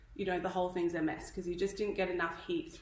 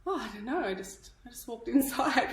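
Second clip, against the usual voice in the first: laughing; 4 semitones higher than usual. Retold or imitated. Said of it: "I was like".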